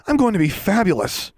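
put-on high, showy kid voice; high-pitched young show-off; boastful youngster. A narrator's reading. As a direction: crow it high like a delighted child.

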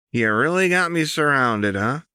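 high and sly; taunting Jinx. Acted. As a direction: grin through the words.

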